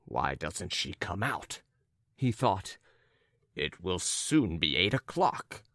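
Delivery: low, contained fuming; understated, muttered impatience; inward rage. Acted. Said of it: "He was raging inwardly".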